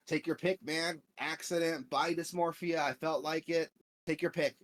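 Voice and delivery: high, loud cheerful dealer voice; imitated upbeat salesman; happy vendor. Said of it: "he's, like, so happy".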